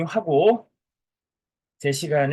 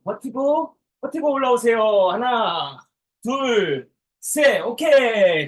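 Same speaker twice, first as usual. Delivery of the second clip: barking gym coach; 3 semitones higher than usual. Acted. Instructor counting exercise reps.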